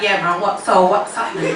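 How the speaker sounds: casual estate greeting, lightly put on; inner estate voice. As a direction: play your laid-back inner self from the estate. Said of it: "in my head, I'm like".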